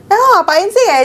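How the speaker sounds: mild mock of a Karo relative asking; lilting Karo imitation. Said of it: "kayak tinggi tapi yang kayak lemah lembut".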